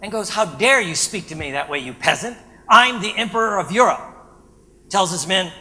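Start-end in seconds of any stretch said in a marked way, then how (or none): 0.3-4.0 louder imperious emperor voice, haughty rising to a bark; Napoleon thing. Retold or imitated. Napoleon to the furrier, a light imperious outrage. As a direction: play Napoleon, the offended emperor, looking down on a peasant. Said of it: "does his Napoleon thing".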